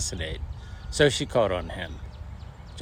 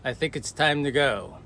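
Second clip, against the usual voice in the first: mock joking yell; 6 semitones higher than usual. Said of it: "Bill jokingly yelled out".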